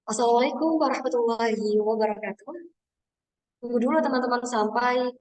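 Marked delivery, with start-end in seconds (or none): 0.1-2.5 emcee greeting with power and intonation; confident announcer welcome. Shown as a demonstration. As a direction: open the event like an MC. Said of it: "intonasi, aksentuasi, speed, artikulasi, dan juga power".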